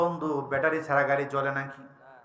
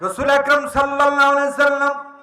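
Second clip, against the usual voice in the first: raised, louder honorific on a held pitch; preacher's intonation; 11 semitones higher, 7 dB louder than usual. Real, not acted. Preacher naming the Prophet to his congregation, intoned. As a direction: intone it high like a sermon formula.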